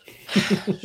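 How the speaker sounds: loud high defeated sigh; a long giving-in sigh; resigned sigh. Real, not acted. Starstruck, giving up the bike.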